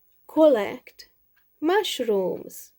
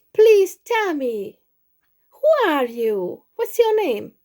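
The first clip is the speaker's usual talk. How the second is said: higher, gently urging little mouse; pleading mouse voice; 6 semitones higher, 4 dB louder than usual. Acted. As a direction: coax the sad boy to answer, voice lifted.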